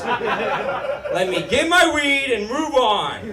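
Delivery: stoner hobo. Retold or imitated. Mock stoner hobo drawl.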